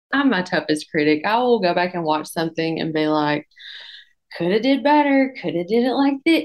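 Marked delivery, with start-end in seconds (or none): 4.4-6.4 higher, louder nitpicking; self-critical. Retold or imitated. Judging her own videos as her toughest critic, higher and louder. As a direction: scold yourself like a tough critic.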